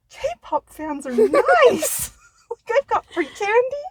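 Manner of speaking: very slow, high marveling; awed. Retold or imitated. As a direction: marvel at it slowly. Awed realization.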